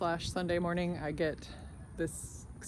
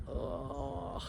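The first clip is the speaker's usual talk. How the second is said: disgusted groan; 13 semitones lower, 8 dB quieter than usual. Retold or imitated.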